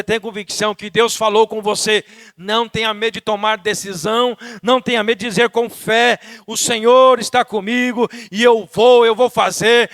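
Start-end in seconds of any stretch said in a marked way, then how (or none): 4.6-9.9 loud declaration of faith; forceful preaching. Real, not acted. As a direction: build into a bold proclamation. (pregação enérgica em voz forte)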